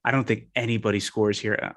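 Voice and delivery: put-on I don't think anybody scores here in a light British accent. Podcaster closing his London pick, in a light British accent. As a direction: say it like a Londoner, half-hearted. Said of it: "I'm gonna stop doing this".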